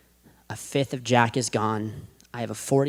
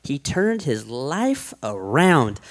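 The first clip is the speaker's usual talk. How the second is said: slow, knowing churchgoer's prediction; lightly voiced churchgoer; much slower than usual. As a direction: say it like the smug pew-sitter. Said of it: "You're like".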